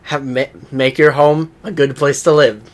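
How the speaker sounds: loud, building presenter reveal. Retold or imitated. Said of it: "it's just like".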